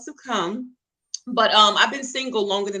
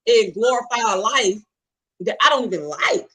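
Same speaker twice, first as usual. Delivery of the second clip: raised, exasperated plea to God; fed-up complaint; 3 dB louder than usual. Retold or imitated. Fed-up single woman venting to God, exasperated. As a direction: vent the frustration at God, a bit louder. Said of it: "I was fed up with God".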